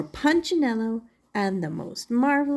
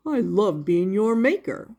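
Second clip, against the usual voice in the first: Eli the maker; 2 semitones lower than usual. Acted. Eli voiced in story.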